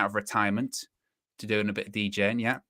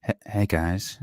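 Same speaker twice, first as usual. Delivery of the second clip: Josh; 3 semitones lower, slower than usual. Retold or imitated. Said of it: "so close into the microphone".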